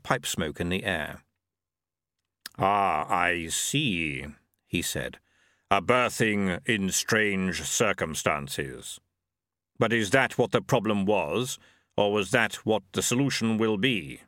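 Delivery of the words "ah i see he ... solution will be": measured voice of the reaper; grim reaper voice. Acted. Death speaks.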